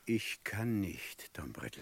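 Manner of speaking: barely able to get it out; broken. Acted. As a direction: judge refusing, voice collapsing. Judge breaks down.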